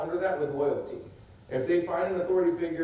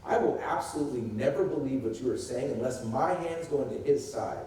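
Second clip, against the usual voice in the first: absolute refusal; 2 semitones lower than usual. Shown as a demonstration. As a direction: state disbelief as a settled fact. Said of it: "What he says is this".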